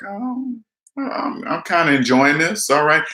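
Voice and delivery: high, airy "Oh" sliding into delight; pleased surprise. Retold or imitated. Quitting the job and finding it enjoyable, pleasantly surprised. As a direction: discover you love not working. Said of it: "I was like".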